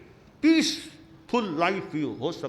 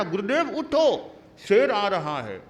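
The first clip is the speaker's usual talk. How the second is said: raised cry warning of the lion; urgent call; 4 dB louder than usual. Retold or imitated. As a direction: call him awake in alarm. Disciple shakes guru, calls again.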